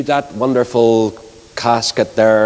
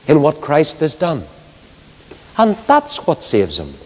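earnest preaching. Acted. Preacher pleading with the congregation about Christ's blood, solemn preaching. Preaching resumes after the story.

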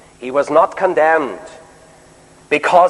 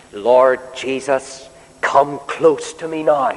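quiet prayer; 3 semitones lower, slower than usual. Shown as a demonstration. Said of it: "I love to pray this prayer".

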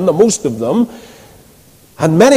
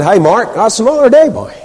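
lightly imitated Ballymena accent; 4 semitones higher than usual. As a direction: playfully echo a Ballymena man's catchphrase. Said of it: "in his Ballymena accent".

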